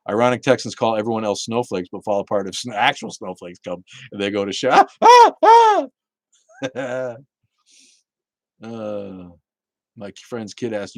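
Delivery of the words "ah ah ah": high, loud mock shrieks; short hammed-up screams of panic; mock panicked scream. Mocking Texans falling apart in snow, mock panicked shrieks.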